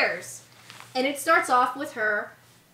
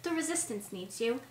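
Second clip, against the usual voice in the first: softer, understated plea; mock calm; 8 dB quieter than usual. Fan imitating Rey's plea to Luke, mock calm. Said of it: "the most calmest person ever".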